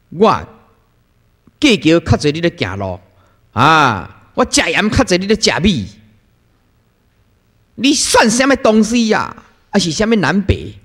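a hint of a haughty old nun in Taiwanese; arrogant old nun. Old nun boasting her experience to juniors, lightly haughty Taiwanese. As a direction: toss it off with mild scorn in Taiwanese. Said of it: "他每次都讲啊".

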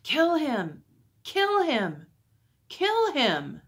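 high, loud crowd chant; yelling. A narrator's reading. Crowd at the palace door demanding death, yelling. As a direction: narrator voices a mob's yell, each cry falling. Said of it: "they all yelled".

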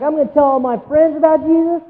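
put-on teen home from camp vows to tell everyone, excited; excited camp kid. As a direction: gush like a kid fresh from camp. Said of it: "you go home from camp and you're like".

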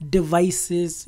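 usual speaking voice

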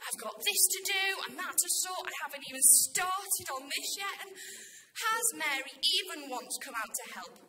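indignant muttered complaint to oneself; grumbling. Acted. Martha grumbles to herself in the kitchen, grumbling. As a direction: grumble about doing everything alone. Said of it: "she grumbles to herself".

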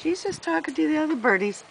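gentle, hushed pet-talk reassurance; softly calming a worried companion. Real, not acted. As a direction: soothe softly, keep it easy. Reassures Jim about calling bird.

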